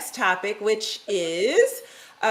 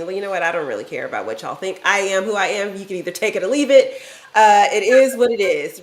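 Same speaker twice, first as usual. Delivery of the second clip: carefree don't-care attitude; 6 dB louder, faster than usual. Retold or imitated. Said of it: "the comfort of being".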